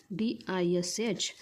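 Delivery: slow, separate letters, each one clear; spelled out letter by letter. Shown as a demonstration. Teacher spelling boy for young students, slow and clear. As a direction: spell it slowly for the class. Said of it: "dish".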